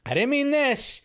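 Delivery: whoa, back off, in a squeaky rush; panicked backpedal. Retold or imitated. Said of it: "be like".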